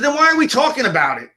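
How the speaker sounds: imitating a politician mocking a TV host; mocking question. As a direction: needle her with a high taunting question. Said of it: "He said".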